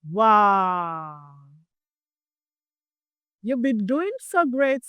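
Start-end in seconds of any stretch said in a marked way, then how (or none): 0.1-1.3 wow, exclaimed brightly; cheerful wow. Shown as a demonstration. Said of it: "Let's exclaim together".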